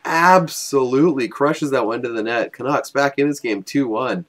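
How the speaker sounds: loud, punchy hockey play-by-play; excited goal call. Real, not acted. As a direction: explode on the first word, then stretch out the hit.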